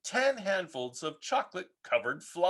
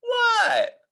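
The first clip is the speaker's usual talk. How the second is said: calling back; 7 dB louder than usual. Acted. Froggy answering a call.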